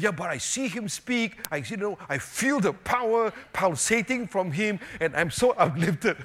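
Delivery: retold excited testimony; imitated enthusiasm. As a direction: gush as an uplifted believer would. Retold missionary's enthusiastic answer.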